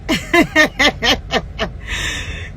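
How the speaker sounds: long real laugh. Real, not acted. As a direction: break into a long run of chuckles. Laughs at own American accent.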